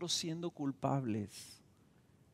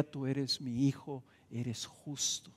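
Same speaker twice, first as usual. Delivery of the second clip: tender voice of God; 5 dB quieter, slower than usual. Pretend. God speaking to the believer.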